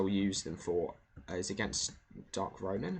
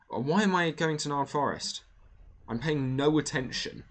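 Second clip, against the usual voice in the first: sudden high startled question; surprised; 8 semitones higher, 6 dB louder than usual. Real, not acted. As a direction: caught off guard, louder. Realising a wrong turn in-game.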